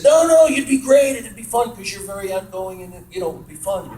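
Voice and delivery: pitched well up, pushing hard to convince; a retold pal's excited sales pitch, high and eager; eager coaxing friend. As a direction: hype him up, no no you'd be great. Friend urging him to audition.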